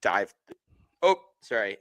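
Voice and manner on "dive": talking through hiccups; hiccuping mid-sentence. Real, not acted. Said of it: "it got the hiccups".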